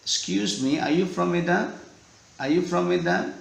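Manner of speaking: Medan question repeated with the pitch climbing; rising tune. Shown as a demonstration. Teacher drills the rising question tune. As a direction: let "are you from Medan?" rise both times. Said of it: "Naik ya nadanya".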